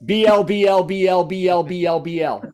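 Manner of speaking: gargling blubber; while gargling. Shown as a demonstration. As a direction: gurgle the sounds through lips. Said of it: "How'd you spell that on the page?".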